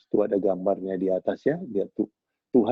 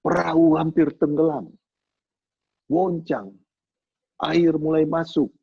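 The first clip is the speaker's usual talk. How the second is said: dramatic storm narration; 5 semitones higher than usual. A narrator's reading. Dramatic telling of storm at sea.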